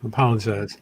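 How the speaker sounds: talking around a cracker; words through a mouthful of food; mouth full. Real, not acted. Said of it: "I have a crack in my mouth".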